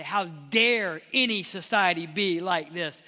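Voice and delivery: slow, emphatic indignant challenge; slow righteous indignation. Acted. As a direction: demand it in outrage, drawing out the opening words. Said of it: "read this with indignation and say".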